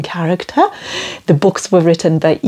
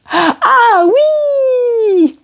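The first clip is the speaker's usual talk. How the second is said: eager French yes. Shown as a demonstration. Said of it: "You try it".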